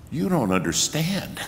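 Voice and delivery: chuckling exasperation; half-laughing inner protest. Retold or imitated. Amused thought about the crowd.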